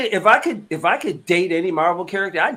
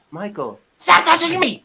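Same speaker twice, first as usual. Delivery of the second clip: high-pitched mock scream; sudden squealed protest, playfully imitated; Mantis screaming; 13 semitones higher, 4 dB louder than usual. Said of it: "just screamed at Drax out of the clear blue".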